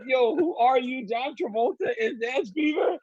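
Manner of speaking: playful calling-out, stretched and high; mock incredulous challenge. Retells mocking himself in the shirt.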